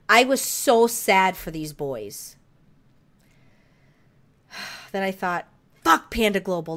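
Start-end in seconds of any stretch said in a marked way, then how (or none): 5.8-6.7 mad outburst. Retold or imitated. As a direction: vent it loudly, re-enacting the fury. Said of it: "I was so mad".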